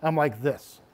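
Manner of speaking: calm and controlled. Shown as a demonstration. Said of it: "I don't look like this".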